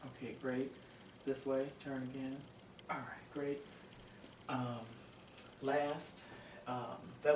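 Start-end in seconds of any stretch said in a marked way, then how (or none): 2.9-3.6 soft breathy whisper. Real, not acted. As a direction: whisper the praise under your breath. Praise to patient during exam.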